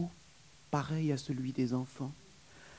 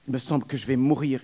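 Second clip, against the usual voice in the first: fast, louder mock lament; moaning; 3 semitones higher, 6 dB louder, faster than usual. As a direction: complain she will die. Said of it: "elle gémit".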